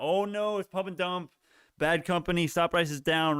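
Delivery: high-pitched mock panic; mock freak-out. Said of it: "People come in freaking out".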